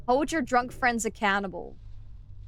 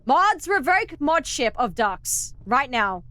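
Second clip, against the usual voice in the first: mock command; 5 dB louder, slower than usual. Mock banning a chatter.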